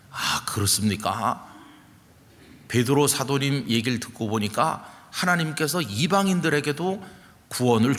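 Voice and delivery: nod along and give way, slowly; slow accepting reply. Retold or imitated. Listeners yielding to Peter's account, slow and accepting. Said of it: "이렇게 베드로가 하는 말을 존중해 줬어요".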